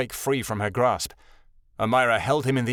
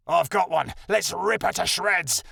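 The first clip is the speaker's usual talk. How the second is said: gleeful shout; 6 semitones higher than usual. A narrator's reading. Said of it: "a strong Ortuzan shouted".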